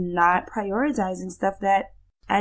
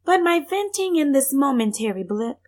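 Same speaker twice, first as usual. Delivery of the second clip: poem recitation. Acted. Reciting her own poem.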